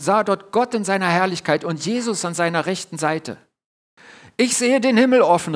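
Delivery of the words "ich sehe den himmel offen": higher, louder ecstatic cry; calling out. Acted. Stephanus before the council, crying out in awe. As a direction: cry out what you see in awe. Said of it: "rief Stephanus".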